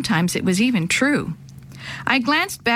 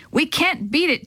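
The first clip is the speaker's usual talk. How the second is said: yell; 6 semitones higher than usual. Acted. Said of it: "Dad yelled".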